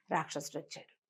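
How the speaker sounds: plain reading voice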